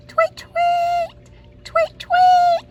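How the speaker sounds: very high chirping tweets; the bird singing to the duckling; bird tweeting. Acted. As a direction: chirp like a songbird. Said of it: "said the bird".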